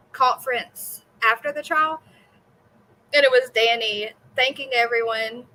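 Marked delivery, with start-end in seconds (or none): 3.1-5.4 hiccuping while talking; hiccups. Real, not acted. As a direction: speak through hiccups. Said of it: "I have the hiccups".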